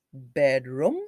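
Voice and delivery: "Bedroom" ending in a short "rum", rising as a question; "Bedroom" with short uh in room; wrong uh sound. Shown as a demonstration. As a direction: say "Bedroom" as bed-rum, testing it. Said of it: "we can't use the uh sound".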